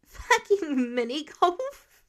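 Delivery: loud, slow, laughing disbelief. Acted. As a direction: crack up at the idea. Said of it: "Peter burst out laughing".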